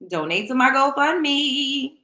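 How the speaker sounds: mock demand. Begging viewers for money.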